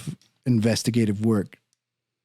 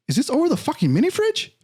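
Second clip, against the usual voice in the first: incredulous outburst. Retold or imitated. Arguing with the detective.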